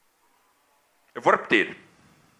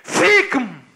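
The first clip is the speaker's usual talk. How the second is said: high, drawn-out cry; desperate plea; 5 semitones higher, 3 dB louder than usual. Acted. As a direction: beg her with a sudden outcry. Father begs grandmother to take baby. (súplica aflita)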